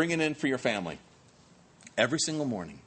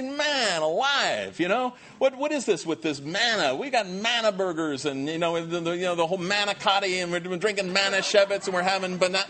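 mock griping; 4 semitones higher than usual. Israelites griping about endless manna, comic exasperation. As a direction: list the manna dishes in fed-up disgust.

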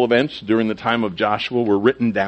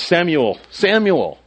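raised-pitch call, lightly acted; calling out a name; 7 semitones higher, slower than usual. The Lord calling to Samuel, gentle raised call. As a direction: call the boy by name, climbing higher. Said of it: "he called as at other times".

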